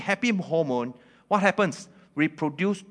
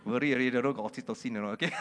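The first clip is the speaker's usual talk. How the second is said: laughing; 4 semitones lower, 4 dB quieter, much faster than usual. Real, not acted. Laughing at his own joke.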